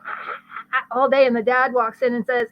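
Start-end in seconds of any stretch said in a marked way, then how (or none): 0.1-0.8 quiet, strained "ah" noises; stifled noises of someone at wit's end; exasperated groan. Acted. Mom worn out by the kids all day, stifled groans. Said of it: "She's like".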